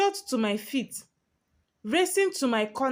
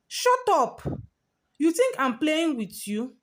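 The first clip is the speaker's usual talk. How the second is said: sharp snap, shut up flung out much higher; angry snap; 5 semitones higher than usual. Acted. Senior snapping at a kneeling junior, angry bark. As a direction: cut her off with a bark. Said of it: "Senior P snapped".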